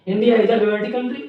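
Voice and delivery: slow and steady, word by word; slow dictation. Shown as a demonstration. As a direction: dictate the sentence slowly. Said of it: "slow dictation demo". (धीरे-धीरे वाक्य लिखवाना)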